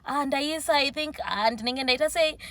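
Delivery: high, bright eager server voice; excited high-pitched server impression; imitating excitement. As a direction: gush at the customer happily. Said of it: "just more excitement".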